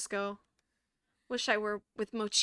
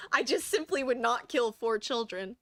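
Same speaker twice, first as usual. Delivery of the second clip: "simply" stretched through a laugh; laughing mock plea; 4 dB louder than usual. Player mocking the doll's apology, laughing. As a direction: giggle through the fake innocence. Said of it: "No, that's so true".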